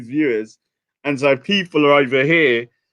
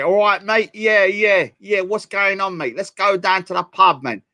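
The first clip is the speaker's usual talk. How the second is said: put-on 1 Cockney accent; 2 semitones higher than usual. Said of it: "some Cockney guy going".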